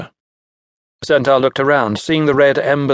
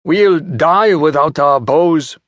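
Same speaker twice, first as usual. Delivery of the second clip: put-on angry young hunter; 4 semitones higher, 4 dB louder, slower than usual. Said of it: "The hunter's son sat up and glared".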